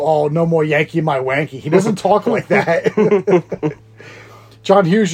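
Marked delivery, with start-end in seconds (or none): 0.0-1.6 lightly imitated stereotyped Asian accent; mock Asian accent. Host quotes Sixteen Candles character, mock Asian accent. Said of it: "He doesn't go".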